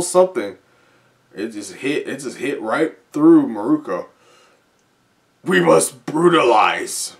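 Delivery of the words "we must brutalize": slow, louder monster line. Acted. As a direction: drag it out menacingly. Reading a monster's first words.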